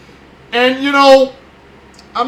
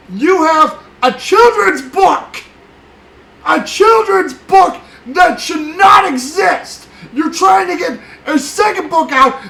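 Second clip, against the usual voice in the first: angry shouting; 3 semitones higher than usual. Real, not acted. Angry rant at Fauci.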